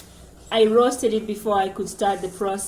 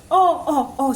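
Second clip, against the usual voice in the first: aunt in dismay; 6 semitones higher, 6 dB louder than usual. Retold or imitated. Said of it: "she was striking her chest".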